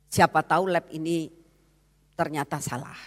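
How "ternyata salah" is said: whispered aside; whispered confidence; hushed. Acted. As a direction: drop to a whisper as if sharing a secret.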